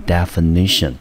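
definition said clearly, stress on NI; model pronunciation. Shown as a demonstration. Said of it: "这个字我们念成". (示范念definition)

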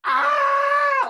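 loud, high Boston "Ah" shouted out; Boston accent. Retold or imitated. Telling the host how a Boston "Ah" sounds, loud and high. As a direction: belt "Ah" in a broad Boston accent. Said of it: "The Boston accent, right?".

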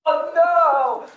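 loud, slow cries of disgust; disgusted shout. Real, not acted. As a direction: yell out in real disgust. Sprayed in the face, disgusted.

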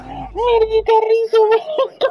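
laughing. Real, not acted. Laughing at a funny clip.

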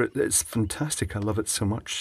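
dry, quiet deadpan sarcasm; sarcastic. Acted. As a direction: say it like you don't mean it. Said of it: "slightly sarcastically".

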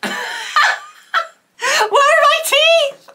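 high, loud, drawn-out squeal of disbelief; shocked. Real, not acted. Seeing her toothless old self, a slow high shocked shriek. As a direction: shriek it in mock horror.

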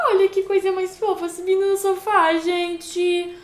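high, gushing coos; cooing over cuteness. Real, not acted. Cooing at cute baby. (derretendo-se, voz aguda de fofura)

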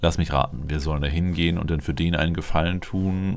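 ordinary delivery

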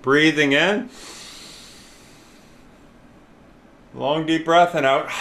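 unhurried breathing cues with long pauses; breathing guide. Real, not acted. Leader guiding everyone to take a breath, calm breathing cues. Leads slow breathing exercise.

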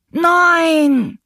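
a huge high bellowed no; bellowing. A narrator's reading. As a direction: roar it with all your might. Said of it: "brüllte Achim aus Leibeskräften".

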